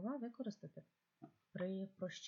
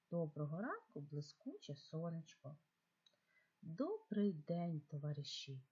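put-on reading to children. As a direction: read it like a bedtime tale for kids. Teacher reads second text.

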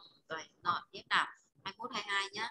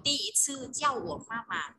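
第一次叫我妈妈 said slowly, syllable by syllable; slow and clear; slower than usual. Shown as a demonstration. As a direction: spell the sentence out slowly for the student.

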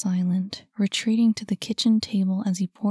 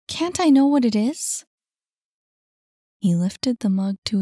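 insistent Saphira; 4 dB louder than usual. A narrator's reading. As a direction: insist with rising urgency.

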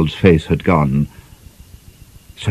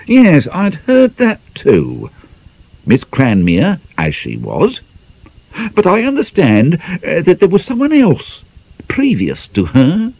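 sly insinuation; 11 semitones higher than usual. A narrator's reading.

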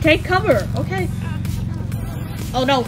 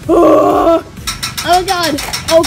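shout; 3 dB louder, slower than usual. Pretend. Toy battle, sudden shout.

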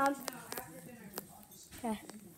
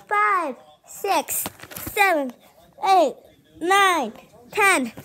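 counting out loud; 2 semitones higher, 4 dB louder than usual. Real, not acted. Counting for hide and seek.

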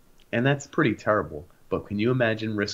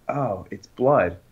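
blurted admission; much slower than usual. Retold or imitated. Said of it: "I was like".

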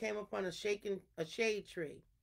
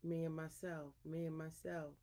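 soft, humbled lion's call; subdued roar; 3 semitones lower, 9 dB quieter than usual. A narrator's reading. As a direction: say the boast softly, well below a roar. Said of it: "wasn't too loud either".

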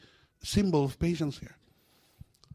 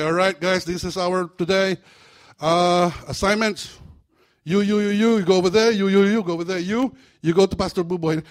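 demon sergeant; 3 semitones higher, 6 dB louder than usual. Acted. Sergeant demon giving assignments.

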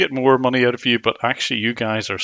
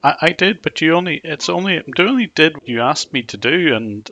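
voice changer; 3 semitones higher, 5 dB louder than usual. Acted. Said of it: "I've turned off the voice changer".

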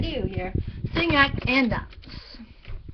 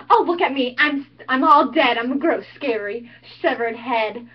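faked death; slower than usual. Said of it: "if I fake it".

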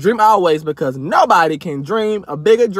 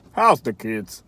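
mock posh chitchat; 11 semitones lower, 5 dB quieter, slower than usual. Mock posh small talk.

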